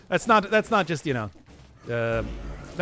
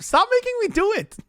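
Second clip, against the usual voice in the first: high squeaky protest. Real, not acted.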